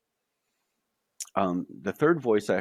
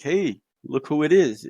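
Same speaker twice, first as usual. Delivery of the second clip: higher, louder, glad cry of recognition; excited recognition; 6 semitones higher, 5 dB louder than usual. Retold or imitated. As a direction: call out like spotting an old friend. Light being excitedly recognizes him.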